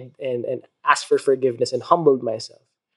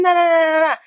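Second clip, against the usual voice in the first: high playful na-na back; playful mock argument; mock bickering; much faster than usual. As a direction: taunt back in a high sing-song. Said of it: "she was saying".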